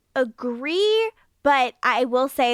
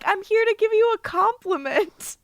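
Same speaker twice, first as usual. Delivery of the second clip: much higher, sugary Fred voice; sweet Fred; 10 semitones higher than usual. Retold or imitated. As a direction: chirp it brightly like a cheerful girl. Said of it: "she's like".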